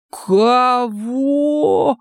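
high, drawn-out mock astonishment; showy amazement. A narrator's reading. Саня растягивает слово в показном изумлении перед новобранцами. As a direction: stretch it in fake amazement. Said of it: "растянул слово в показушном великом изумлении".

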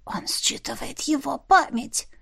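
hushed, confiding the secret; soft whispering familiar; whispered commentary. Acted. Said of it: "прокомментировала Ларин шёпотом".

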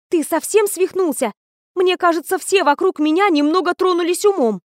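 outraged at the madness around her; heroine's indignant protest, pitched high. A narrator's reading. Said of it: "возмутилась я".

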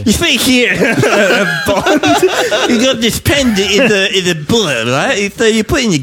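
lightly put-on secret agent briefing; a hint of a suave spy; spy movie voice. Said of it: "This is my spy movie voice".

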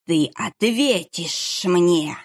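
very slow, dragged-out threat; menacing monk. Acted. Monk demands an answer, very slow and menacing. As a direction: drag every word out menacingly.

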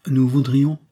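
put-on a boy's high, tentative start; ventured. A narrator's reading. Jeannot timidly addressing Monsieur Jacques. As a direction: venture it shyly, like a small boy. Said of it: "hasarda Jeannot".

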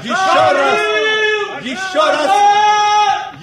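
urging call. Acted. Urging constables to shout.

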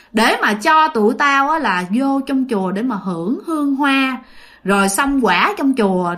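possessed ghost voice. Retold or imitated. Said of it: "giọng đàn ông".

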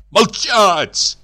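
high, loud barked command; shout. A narrator's reading. Husband shouting at his wife to be silent. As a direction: bark it to shut her up. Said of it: "крикнул супруг".

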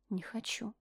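very soft frightened refusal; scared quiet. Acted. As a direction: barely get it out, afraid. Michelle scared, swallowing.

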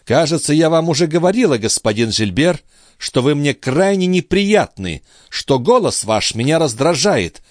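high, cutting noblewoman's voice, each word rapped out; clipped cold words. A narrator's reading. Andrea coldly crushes Gilbert, cutting and scornful. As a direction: crush him with every syllable. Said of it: "отчеканила".

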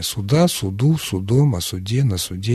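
Суда, суду, судом, о суде, на суде, each stressed on the ending. Shown as a demonstration. Expert recites case forms of суд, stress on each final syllable. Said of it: "ударение падает на окончание".

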